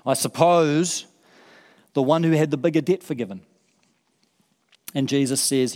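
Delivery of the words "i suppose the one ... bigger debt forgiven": a grudging admission to the teacher; begrudging. Acted. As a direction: drag it out unwillingly. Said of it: "he's sort of begrudgingly".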